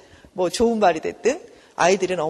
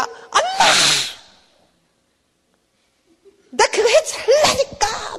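put-on angry child shout; 13 semitones higher, slower than usual. Child angrily shouting at mom to get what they want. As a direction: yell it like a child throwing a fit. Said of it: "막 그러면서 화를 내면".

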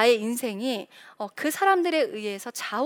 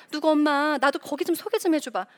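higher-pitched coaxing request; acted eager mom angling for a favor; wheedling mother; 4 semitones higher than usual. Anxious mom wheedles another mother.

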